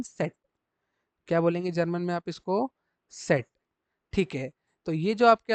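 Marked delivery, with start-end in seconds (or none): 0.0-0.3 सेट said softly as "tset" with a ts sound; German letter Z. Shown as a demonstration. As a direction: demo सेट starting with ts. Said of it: "वो क्या निकलेगा everyone".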